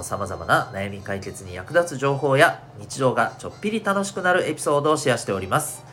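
upbeat radio show opening; radio host intro. Acted.

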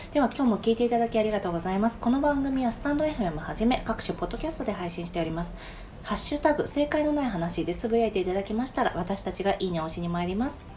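polite, even announcement read; formal programme closing; scripted podcast outro. Acted. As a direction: read out the sign-off politely and briskly.

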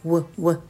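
short "う、う" with tightly pursed lips; puckered W. Shown as a demonstration. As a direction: purse the lips hard for an English W on "う". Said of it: "もう口をすごいすぼめて".

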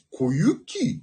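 小雪 with his signature drama intonation; 小雪 in his pet melody; special intonation. Shown as a demonstration. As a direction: say 小雪 the way he always imitates it. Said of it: "このイントネーションで何でも言うよ".

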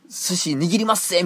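high-pitched, hammed-up sushi chef; imitated sushi chef. Sushi chef showing off to customers, mock gung-ho and high. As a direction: play the eager craftsman behind the counter. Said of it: "みたいな感じで言うてくる".

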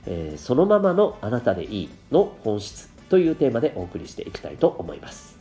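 stuffy blocked nose; talking through a cold; nasal voice. Real, not acted. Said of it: "かなり鼻声ですよね。".

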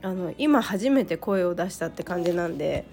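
hoarse from a cold; raspy, worn-out cold voice. Real, not acted. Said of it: "ちょっと声がガラガラなんですけど".

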